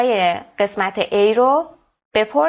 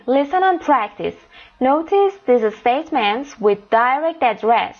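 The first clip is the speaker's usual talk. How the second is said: slow careful reading; 2 semitones higher, much slower than usual. Shown as a demonstration. Teacher reads instructions aloud.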